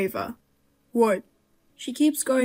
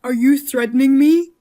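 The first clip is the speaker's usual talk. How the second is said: louder, rising in outrage; indignant; 2 semitones higher, 6 dB louder than usual. Acted. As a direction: demand it, stunned and offended. Son confronting his scheming mother.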